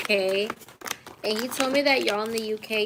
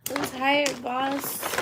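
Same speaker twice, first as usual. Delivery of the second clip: higher put-on voice; 4 semitones higher, much slower than usual. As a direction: repeat it in a higher character voice.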